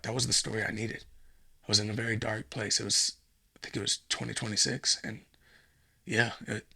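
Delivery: hushed, lost in memory; a hushed, wistful intruder recalling the whale. Pretend. Intruder reminisces dreamily.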